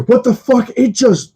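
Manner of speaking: high-pitched imitation of stunned excitement; excited pilot. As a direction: squeal it like an amazed pilot. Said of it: "he's getting so excited".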